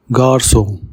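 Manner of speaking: "Garçon" with ç said as S; French "Garçon", soft S before the O; soft S sound. Shown as a demonstration. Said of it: "the C has a soft S sound".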